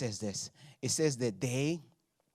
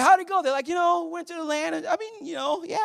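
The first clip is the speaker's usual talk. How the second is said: imitating chatty relatives; 13 semitones higher than usual. Mom and kids quoted.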